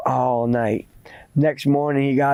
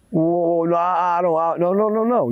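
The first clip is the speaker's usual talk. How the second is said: stammering, rising protest; mildly panicked stammer; flustered denial; 3 semitones higher than usual. Acted. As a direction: backpedal nervously, tripping over the words. Boy stammers denial to old man.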